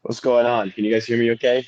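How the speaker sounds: hungover voice; rough morning-after voice. Real, not acted. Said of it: "I can hear the hangover in your voice".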